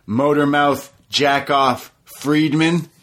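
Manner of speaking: lightly voiced DDP put-down; imitating DDP. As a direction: drag out the insults slowly. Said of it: "He says".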